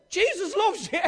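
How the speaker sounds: gentle Jesus loves you. Retold or imitated. Woman calms a fighting man.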